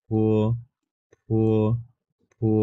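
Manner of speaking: ফো said with a puff of air on the ph and a long o; careful teacher demo of ফো; Chinese po demo. Shown as a demonstration. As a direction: breathe out on ফো, stretching the o. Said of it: "পির উচ্চারণ ফ এর মতো, এখানেও আমরা ও টান দিব".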